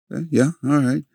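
put-on high, resigned boy's yes; giving in. Boy accepting grandma's lesson, high. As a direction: concede like a chastened kid.

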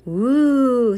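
loud, high, drawn-out woo; impressed woo. A narrator's reading. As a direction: let out a long awed woo. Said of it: "some of the girls repeated".

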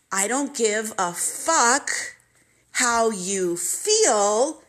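slow, loud, cold dad snapping back; the father brushing off his hurt child, slow and cold; harsh father. Retold or imitated. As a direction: bite out each word like a dismissive father. Father's cruel reply on phone.

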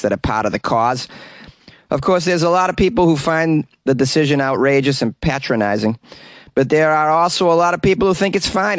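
lightly voiced Boston counselor; Boston accent. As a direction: read the quote in a mild Boston accent. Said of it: "so I'm gonna do a Boston accent".

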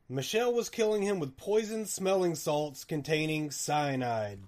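ordinary delivery

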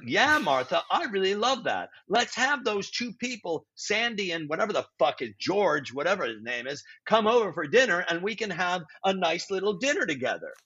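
lightly hammed-up stage husband; stilted play dialogue. George agreeing to Martha's dinner plans, mock stilted. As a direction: play along with phony, over-explained chat. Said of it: "Nobody talks like that".

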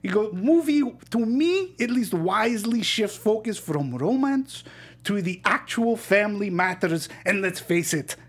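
hammed-up Greek uncle voice; Greek accent. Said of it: "in my Greek accent".

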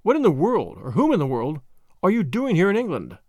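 lightly merry questioning; a touch of playful curiosity, lilting. Acted. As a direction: ask merrily, without overdoing it. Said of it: "she added merrily".

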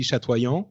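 "chatoyant" said the French way, shat-wa-YAHN; French pronunciation. Shown as a demonstration. Explaining the French way to say "chatoyant". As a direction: give "chatoyant" its French nasal ending. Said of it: "in French, it would be".

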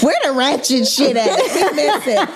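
laughing quote. Retold or imitated. Quoting fans, laughing.

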